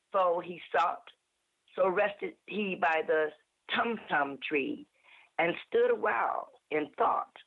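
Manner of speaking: expressive, measured storytelling poem reading; dramatic verse, phrase by phrase with pauses; poem recitation. Acted. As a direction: recite a nonsense poem with lively rises and falls. Recites Jabberwocky from memory.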